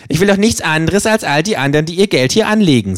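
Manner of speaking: cheeky kangaroo. Acted. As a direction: play the kangaroo, dry and cocky.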